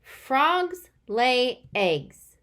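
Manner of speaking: slow, whispered Frogs lay eggs; slow whispered reread. Shown as a demonstration. Teacher rereading to kids, slowly whispered. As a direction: breathe it out word by word. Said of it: "reread my writing now".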